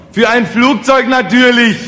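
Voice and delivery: high, loud, slow proclamation; emphatic answer. A narrator's reading. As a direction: announce it as utterly obvious. Orator answers the peasants' question emphatically.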